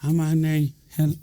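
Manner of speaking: hammed-up halting, unsure introduction; mock-hesitant self-introduction; how not to introduce yourself. Shown as a demonstration. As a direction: stumble and break off, then blurt the title. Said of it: "You don't do this".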